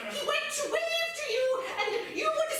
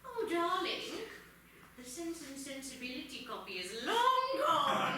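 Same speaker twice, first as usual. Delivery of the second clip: much lower, soft sinister voice; creepy librarian; 10 semitones lower, 4 dB quieter than usual. Acted. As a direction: intone it like a haunted host.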